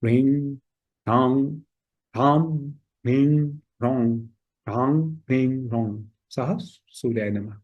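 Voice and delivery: ह्रीम ह्रौं ending between m and ng, nasal. Shown as a demonstration. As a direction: hum the end of ह्रांग ह्रीम ह्रौं through the nose. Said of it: "इन दोनों के बीच का it ends on the nose".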